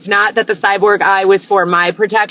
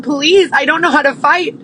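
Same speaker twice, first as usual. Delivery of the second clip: begging; 3 semitones higher than usual. Retold or imitated. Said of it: "me crying and begging for help".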